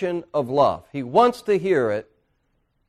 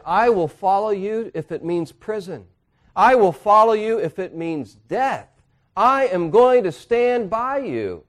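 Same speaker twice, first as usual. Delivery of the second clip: fervent vow; 7 semitones higher, 6 dB louder than usual. Retold or imitated. Peter's vow, acted in sermon.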